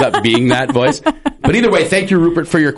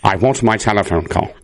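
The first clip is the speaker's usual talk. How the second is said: Rupert voice; 5 semitones lower than usual. Acted. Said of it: "that's the impression he's going with".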